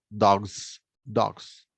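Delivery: "dogs" repeated with a clearly sounded final s; precise final S. Shown as a demonstration. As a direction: finish each "dogs" on a firm sibilant. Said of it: "precisan un poquito más el sonido". ("dogs" precisando la s final)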